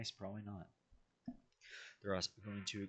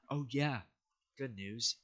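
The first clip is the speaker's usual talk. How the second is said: excited; 5 semitones higher, 9 dB louder, slower than usual. Real, not acted. Sudden cheerful announcement in narration.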